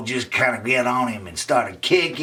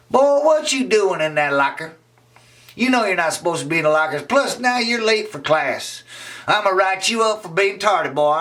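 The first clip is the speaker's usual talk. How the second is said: scolding teacher; 8 semitones higher than usual. Acted. Miss Sarah catches Raymond in the locker, scolding. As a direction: scold him like a strict teacher.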